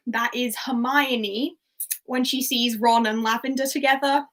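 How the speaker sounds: ordinary talk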